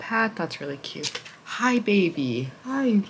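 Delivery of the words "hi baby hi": slow tender hello to a pet; tender pet greeting. Real, not acted. Greeting the cat.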